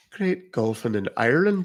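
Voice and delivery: light Irish accent; a touch of Irish on a short phrase. Shown as a demonstration. Streamer showing viewers another country's accent, Irish accent. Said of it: "What country?".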